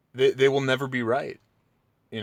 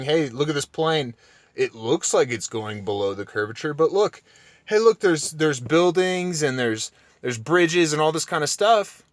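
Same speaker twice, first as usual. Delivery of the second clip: mock flat earther; 2 semitones higher than usual. Mocking Jaron's argument again.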